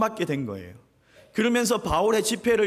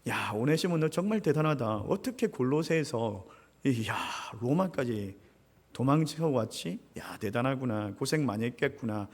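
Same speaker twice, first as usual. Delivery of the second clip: softer, gentle amazed comfort; tender Paul; 4 semitones lower, 4 dB quieter than usual. Acted. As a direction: console the tired runaway kindly. 바울의 위로. (다정하게 위로하는 바울)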